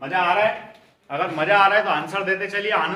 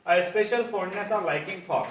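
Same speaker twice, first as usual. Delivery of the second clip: धीमी dictation; much slower than usual. Shown as a demonstration. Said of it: "dictates the question slowly".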